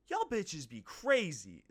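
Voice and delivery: slow, put-on African American accent. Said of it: "That's my Matt Rife impression".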